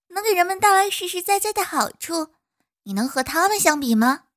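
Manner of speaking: loud, high, cheerful bee; cheerful little bee reassuring. Acted. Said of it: "蜜蜂说".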